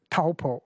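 "Taupo" pronounced the Māori way; Māori-style vowels in "Taupo". Shown as a demonstration. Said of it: "as long as you learn the vowel sounds".

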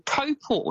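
Taupo in the Maori way, first vowel like 'toe'; Maori-style Taupo with a rounded opening vowel; correct Maori pronunciation. Shown as a demonstration. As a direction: say Taupo as TOE-paw. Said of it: "say it the correct way".

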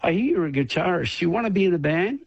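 lightly imitating the Canadian guy's eager pitch; Canadian accent. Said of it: "I can't do my Canadian accent".

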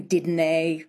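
"did nay" with a Scots -nae ending. Shown as a demonstration. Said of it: "the nay ending".

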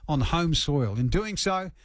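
measured radio news read. Acted. Radio host introduces the boxing story to listeners, news read.

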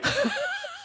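high-pitched burst of laughter; embarrassed laugh. Real, not acted. Caller laughing at being caught yelling, high giggle. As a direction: laugh high at your own story.

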